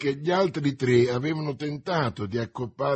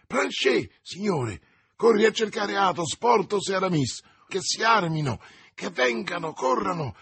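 shouting for help to the servant; urgent call; 6 semitones higher than usual. A narrator's reading. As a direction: rouse the servant, quickly. Calling servant to fetch friends.

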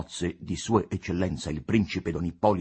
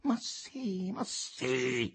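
forceful affirmation; 4 dB quieter, much slower than usual. A narrator's reading. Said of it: "affermò con forza Capolino".

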